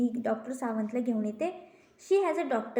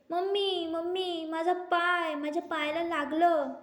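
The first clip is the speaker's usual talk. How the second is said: higher pleading call for mummy; a little girl calling her mother after falling; hurt child crying out; 5 semitones higher, slower than usual. Acted. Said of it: "ती ओरडते". (आईला हाक मारणारी लहान मुलगी)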